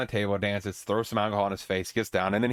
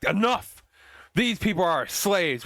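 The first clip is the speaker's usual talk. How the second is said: commanding shout; 6 semitones higher, slower than usual. Retold or imitated. King halts the arm wrestling, commanding shout. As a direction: cut them off with a royal order.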